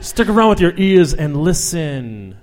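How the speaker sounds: slow, solemn beat poet recital. Pretend. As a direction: intone it like a pretentious poet. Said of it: "Word jazz".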